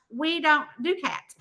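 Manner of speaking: retold husband's measured refusal; lightly voiced reluctant husband; mild objection.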